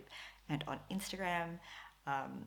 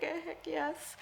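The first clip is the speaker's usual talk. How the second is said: eager yes; 13 semitones higher than usual. Retold or imitated. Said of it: "And I was like".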